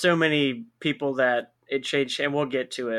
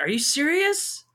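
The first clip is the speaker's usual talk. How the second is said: high-pitched mock disbelief; retold incredulous question; 12 semitones higher than usual. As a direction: ask it in disbelief, pitch climbing steeply at the end. Retelling their own disbelieving reaction.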